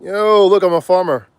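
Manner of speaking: playful hick farmer bit; lightly voiced farmer. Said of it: "I got a piece of straw".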